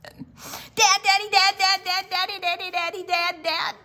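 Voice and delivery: high, loud pestering calls; boy waking his dad before dawn, high and insistent; eager child calling. Acted. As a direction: keep calling to wake him.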